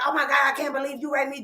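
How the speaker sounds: fast, high mock outrage; quick squeal of mock disbelief; mock irate outburst. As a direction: fake a girl going irate. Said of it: "she went irate".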